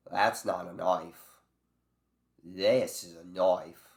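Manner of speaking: put-on out-of-practice Australian accent, drawn out and loud; bad Australian accent. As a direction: ham up a rusty Australian accent, slowly. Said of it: "It's a very bad Australian accent".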